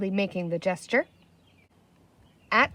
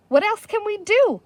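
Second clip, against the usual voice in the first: higher, louder helpless plea; despairing; 11 semitones higher, 6 dB louder than usual. A narrator's reading. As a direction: ask it close to panic. Despairing chief.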